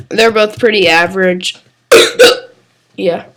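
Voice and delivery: hiccuping and coughing while talking; interrupted by hiccups and coughs. Real, not acted. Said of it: "major hiccups and a major cough".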